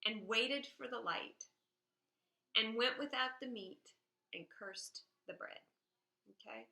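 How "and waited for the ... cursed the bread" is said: poem quote. Shown as a demonstration. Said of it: "It says".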